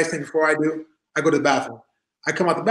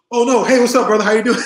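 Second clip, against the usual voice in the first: imitating friendly Bret; 6 semitones higher, 5 dB louder than usual. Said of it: "And he goes".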